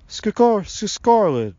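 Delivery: loud, high, echoed stutter; repeated stammer. A narrator's reading. Tree man repeating the girl's stammered name, stuttering. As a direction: copy the stammered name syllable by syllable. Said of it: "Sylvanus repeated".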